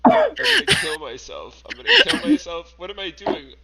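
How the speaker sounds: put-on squeaky anime girl, near shouting; hammed-up anime girl despair; high cute anime girl. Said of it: "Why am I pretending to be anime online?".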